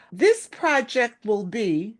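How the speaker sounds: slow build, then stop dead; dramatic pause after. Shown as a demonstration. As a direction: say it slowly and hold the silence. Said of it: "and then you pause for two seconds".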